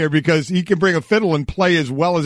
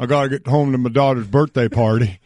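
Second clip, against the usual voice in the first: light attempt at a movie-star drawling accent, pitched down; Nicolas Cage accent; 4 semitones lower than usual. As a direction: lightly imitate the actor's movie accent, a bit low. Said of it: "in that accent Nicolas Cage say".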